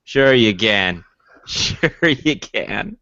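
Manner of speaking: slow, drawn-out disbelief; teasing doubt, slowly; sarcastic. Real, not acted. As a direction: stretch it out mockingly. Doubting friend can handle it.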